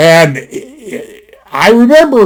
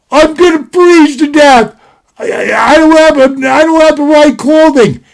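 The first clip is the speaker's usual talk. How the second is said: higher-pitched whining cousin; whiny complaint; 6 semitones higher than usual. Retold or imitated. Cousin complaining in the desert cold, higher whine. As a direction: complain like a cold, scared kid.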